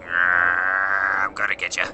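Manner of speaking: playful threat. Pretend. Playful chase threat in game.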